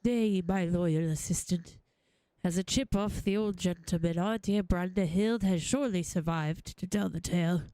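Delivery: low, stately gentleman voice; confident old-fashioned gentleman. Acted. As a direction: assure the assistant in a low, lordly voice. Voices gentleman character in game.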